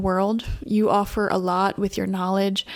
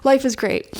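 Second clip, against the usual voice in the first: giddy; 3 semitones higher, slower than usual. Retold or imitated. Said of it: "I get really giddy".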